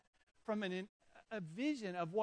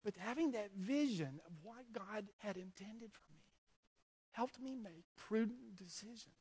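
choked up; 4 dB quieter than usual. Real, not acted. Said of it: "that's the only emotion I've got".

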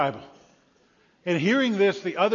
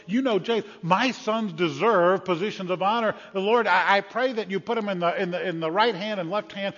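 loud, high, wheedling mother; mother lobbying Jesus for her sons; pleading mother; 5 semitones higher, 5 dB louder than usual. Acted. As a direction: sell her boys to Jesus.

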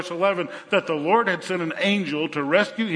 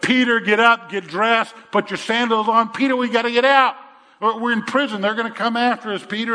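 urgent, raised and pressing, a touch higher; urgent angel; 5 semitones higher, 4 dB louder than usual. Acted. Angel rousing groggy Peter in prison, urgent raised call. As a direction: hurry him out before the guards come.

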